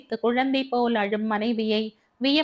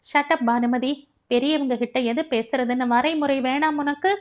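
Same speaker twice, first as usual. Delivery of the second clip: sharp, higher angry retort; angry outburst; 3 semitones higher than usual. Acted. Savitha silences her sister-in-law, angry outburst. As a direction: snap at her in fury. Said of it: "கோபத்தில் சீறினாள் சவிதா".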